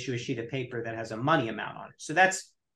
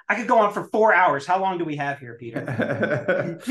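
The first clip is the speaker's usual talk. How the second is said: laughing; 3 semitones higher, 5 dB louder than usual. Real, not acted. Joking about running long.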